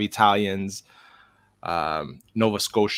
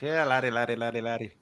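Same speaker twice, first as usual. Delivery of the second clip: put-on Scottish, trailing softer; Scottish accent; 2 semitones higher, 3 dB quieter, faster than usual. Shown as a demonstration. Playing up the Scottish for co-hosts, Scottish accent. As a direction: repeat it in a fading Scottish accent. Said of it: "Definitely more Scottish there".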